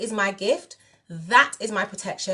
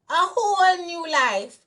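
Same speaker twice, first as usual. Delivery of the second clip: dreamy excitement; 9 semitones higher, slower than usual. Real, not acted. Echoes the burst, high and slow.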